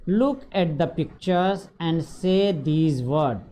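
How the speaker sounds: each word drawn out slowly for pupils; slow textbook read. Shown as a demonstration. Teacher reading the book instruction to pupils, slow and deliberate.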